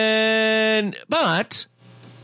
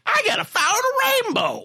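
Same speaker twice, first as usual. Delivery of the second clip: dim Ozzy voice. Retold or imitated. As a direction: play him as a simple, dopey kid. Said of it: "And Ozzy's like".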